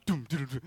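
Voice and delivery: short run of mouthed drum thuds; imitated drumbeat. Storyteller imitating drums as the mob moves, percussive. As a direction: mimic drums starting suddenly. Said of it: "And then all of a sudden".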